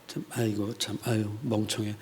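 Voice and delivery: low, very soft scornful grumble; muttered sneer. Acted. Foreigner mocking the captives inwardly, muttered sneer. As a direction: sneer to yourself under the breath. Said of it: "속으로 비아냥거리면서".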